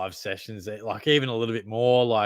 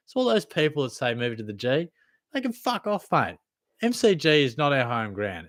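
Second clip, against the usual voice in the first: mock rant; 4 semitones higher than usual. Real, not acted. Ranting about moving Geelong game.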